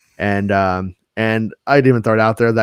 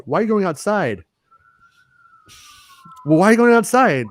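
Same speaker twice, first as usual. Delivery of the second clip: much higher, lightly acted questioning; retold puzzled question; 11 semitones higher, faster than usual. Parent questioning kid after the scary bathroom scene, high retold question. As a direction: pitch the question right up, as retold.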